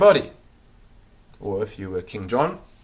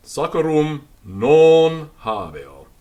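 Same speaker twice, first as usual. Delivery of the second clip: slave's reply; 5 semitones higher, 9 dB louder, slower than usual. Acted. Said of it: "So he just said".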